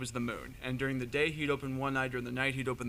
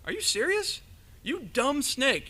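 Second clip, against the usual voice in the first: high, loud, mocking jeer; gloating taunt; 9 semitones higher, 4 dB louder than usual. Anansi mocks the python he has just tied up, high and jeering. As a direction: crow over the fooled snake, slow on the insult.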